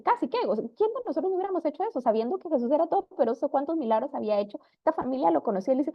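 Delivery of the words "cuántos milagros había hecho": ordinary talk, nothing marked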